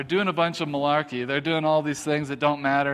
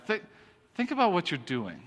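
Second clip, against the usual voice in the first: "think" set apart, then "think about what you're doing" falling; halting, pointed "think... think about what you're doing", sliding down to the end; parental inflection; 5 dB quieter than usual. Shown as a demonstration. Showing how parents say it to kids, pointed inflection. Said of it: "you gotta hear the inflection".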